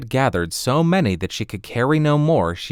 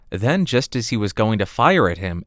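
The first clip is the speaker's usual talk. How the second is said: ordinary delivery, nothing marked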